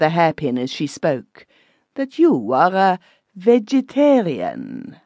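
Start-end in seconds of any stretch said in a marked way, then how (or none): 1.9-5.0 high, prying German widow; pry into it in a high, nosy voice. Acted. The widow quizzes the narrator at dinner, high and nosy. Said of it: "asked the widow".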